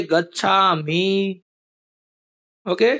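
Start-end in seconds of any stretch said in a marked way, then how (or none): 0.0-1.4 slow dictation. Shown as a demonstration. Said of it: "लिख दो सामने".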